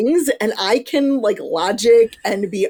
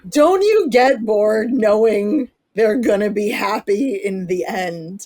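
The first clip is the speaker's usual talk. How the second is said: laughing mock question. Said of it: "one of the biggest ones that I hear is".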